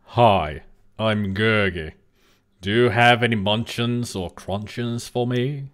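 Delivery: lightly voiced posh gentleman creature; a hint of a polite gentleman, measured; gentleman Gurgi. Streamer trying out a voice for Gurgi, mock gentleman. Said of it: "he talks like a gentleman".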